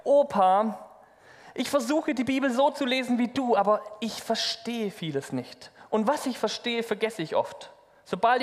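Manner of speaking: a lightly voiced boy, puzzled and earnest; a hint of a young boy asking his grandpa; young grandson. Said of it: "fragte ihn der Junge".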